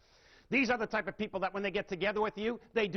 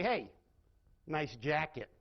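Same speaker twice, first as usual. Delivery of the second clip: second reading; 4 semitones lower, slower than usual. Shown as a demonstration. Teacher demonstrates the same words with the opposite meaning. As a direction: drop the voice and mean the opposite. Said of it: "Very different meaning".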